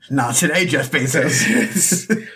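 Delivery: slow, laughing drawn-out name. Real, not acted. Host joking at Alexa while laughing. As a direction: laugh your way through it.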